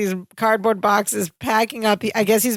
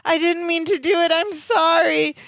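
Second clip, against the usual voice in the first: mock breakdown; 8 semitones higher than usual. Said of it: "He's breaking down".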